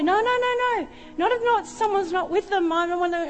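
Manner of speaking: high, urgent no no no; frantic refusal. Retold or imitated. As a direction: protectively shut the idea down. Refusing husband, kids outside.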